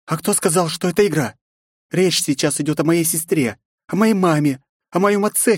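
put-on fierce young princess, rising; defiant young woman. A narrator's reading. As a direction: spit out her anger at the intruder. Nastya defends her family.

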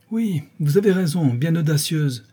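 the husband echoes his wife's rebuke; the marquis. Acted. A mild mock echo.

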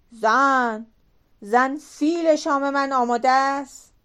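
loud booming call for dinner. Acted. Giant husband calls his wife for supper, loud call. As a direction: bellow across the house for her.

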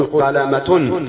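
قلمة with a sounded t and -un; wrong t ending. Shown as a demonstration. Teacher showing what is not said, قلمة with "-tun". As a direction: say قلمة as "qalamatun". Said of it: "لا، تقول".

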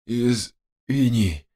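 slow, exhausted exhale of a word; breathed-out apology. A narrator's reading. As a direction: breathe it out slowly, drained. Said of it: "выдохнул я". (на медленном выдохе, обессиленно)

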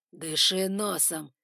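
barked order. Acted. Lord ordering girl.

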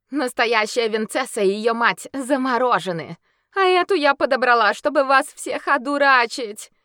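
high, loud taunting shout; shouted insults. Acted. Werewolf denouncing the crowd before escaping. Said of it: "выкрикнув последнее ругательство".

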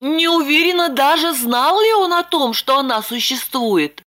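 put-on high young woman's voice, lightly eager; Lipochka reassuring. A narrator's reading. Lipochka telling Roman the bandit left, high voice. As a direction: pitch up into Lipochka.

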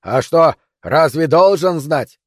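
loud, drawn-out question; shouted challenge. Acted. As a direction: call down, unimpressed. Defender calls down to climber. (громкий насмешливый вопрос)

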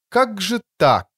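медленно, зловеще тянет слова; тяни слова с угрозой; зловеще растягивая. Acted. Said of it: "зловеще растягивая слова". (эльф зловеще растягивает слова над ранеными)

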